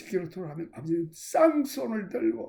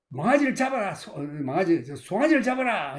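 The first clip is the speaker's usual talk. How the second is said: commanding order; 4 dB louder than usual. Acted. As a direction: shout the order for the feast. Father orders a feast. (종들에게 잔치를 명령하는 아버지의 외침)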